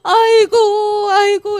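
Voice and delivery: high, drawn-out mock wail; loud fake wailing. Wife puts on a show for the servants, loud wailing. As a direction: wail loudly as if you were wronged. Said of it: "큰 소리로".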